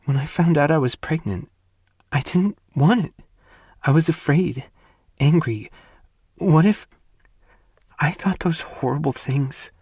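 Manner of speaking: high and rising, pushed through tears; tearful high-pitched outpouring; crying confession. Acted. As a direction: sob it out in a breaking voice.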